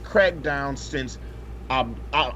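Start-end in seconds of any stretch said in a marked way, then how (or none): none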